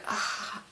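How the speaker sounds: breathy, weary sigh; exasperated sigh. Retold or imitated. Woman fed up with wild kids, exasperated sigh.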